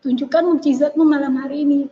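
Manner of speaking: high, insistent plea without shouting; retold inner cry. Woman asking for a miracle tonight, mild retold cry. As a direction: imitate begging God from the heart. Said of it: "kayak seperti teriak gini".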